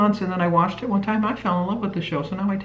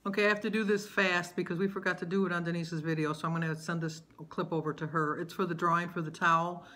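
softer, hurried list reading; quiet rushed; 12 dB quieter than usual. Real, not acted. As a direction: murmur it quickly off to the side. Hurried quiet add-on message.

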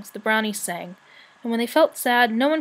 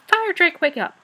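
high, loud, urgent alarm; excited storybook cry of warning; shouting; 7 semitones higher, 7 dB louder than usual. A narrator's reading. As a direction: rouse a sleeper with urgent news. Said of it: "she shouted".

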